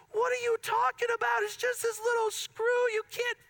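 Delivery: protest, all worked up; amped up. Retold or imitated. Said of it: "I'm getting a little amped up".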